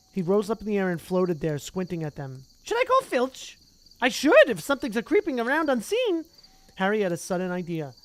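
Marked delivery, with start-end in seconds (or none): 2.6-6.3 high, loud, impish sing-song; cackling poltergeist. Acted. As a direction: tease like a mischievous ghost. Peeves voiced.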